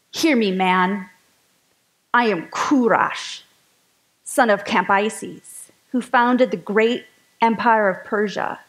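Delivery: slow, grand ancient king proclamation; old-timey voice. Acted. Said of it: "say it in my old-timey voice".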